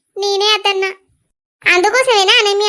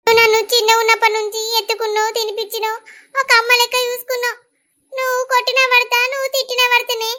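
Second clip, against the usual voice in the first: tearful; 3 semitones higher than usual. Acted. Younger sister recalling being raised by elder, tearful. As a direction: recall it tenderly through tears. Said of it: "ఏడవకుర్రి".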